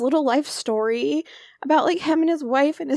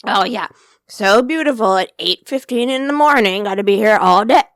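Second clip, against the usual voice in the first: sarcastic; 3 semitones lower, 7 dB louder than usual. Retold or imitated. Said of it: "What did she say?".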